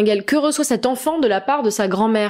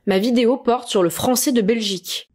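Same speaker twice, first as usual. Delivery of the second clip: mock irritation. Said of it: "Pourquoi je m'énerve toute seule".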